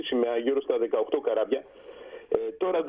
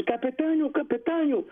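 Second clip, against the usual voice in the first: much higher mock call across the deck; retold calling out; 12 semitones higher, slower than usual. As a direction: imitate the watchman calling the captain. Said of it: "ακούμε το βατσιμάνι να φωνάζει".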